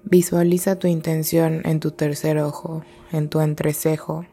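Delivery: calm, measured meditation guide with long pauses; guided meditation. Real, not acted. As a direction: guide them gently inward, leaving space between phrases. (meditación guiada, tranquila y pausada)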